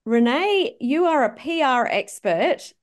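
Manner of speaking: bright podcast host welcome; upbeat show opener; host intro read. Acted. Host opens the episode.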